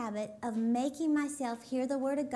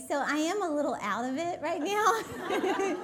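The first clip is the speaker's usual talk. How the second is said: normal talking voice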